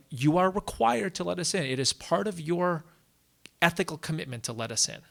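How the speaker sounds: loud, firm insistence; insistent demand. Acted. Muslims arguing to be let into Mecca, insistent. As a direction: press the point forcefully.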